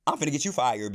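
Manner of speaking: loud furious outburst; going off. Retold or imitated. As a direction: explode at the guard. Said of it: "now I'm going off on him".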